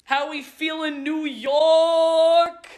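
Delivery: loud, high arena call; crowd call. Acted. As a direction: rouse a crowd like a hammed-up villain. Villain calling crowd.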